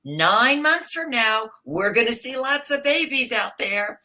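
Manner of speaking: put-on light Greek old lady accent, slow and high; a hint of Greek accent, lightly voiced; imitating a Greek accent. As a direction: mimic the Greek grandmother's accent gently. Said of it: "she said to us with her accent".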